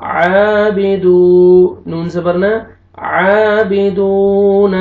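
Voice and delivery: slow chanted आबिदून with the दू held; Quranic recitation. Shown as a demonstration. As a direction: recite it, stretching the vowel. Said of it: "recitation demo".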